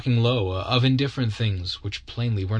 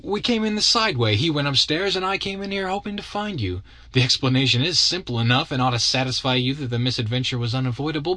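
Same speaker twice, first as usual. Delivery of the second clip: lightly voiced young gentleman, higher, defending himself; young man justifying himself to Natalie, a touch defensive; self-justifying young man; 5 semitones higher than usual. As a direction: explain it away, brisk at the end.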